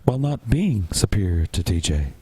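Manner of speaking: mocking impression of an insecure alpha male; lightly put-on voice, parodying a rival's self-important rant; Devin impression. Co-host parodies a thin-skinned rival for the panel, mock insecure alpha. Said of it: "You were talking a little too fast to be Devin".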